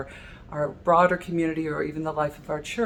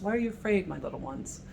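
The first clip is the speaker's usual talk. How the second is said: softer, fading to a hush on my little ones; tender endearment; 2 semitones higher, 6 dB quieter, faster than usual. Shown as a demonstration. Preacher voicing Jesus calming his disciples, soft tender endearment. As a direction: comfort frightened children. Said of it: "it also can be heard as an endearment".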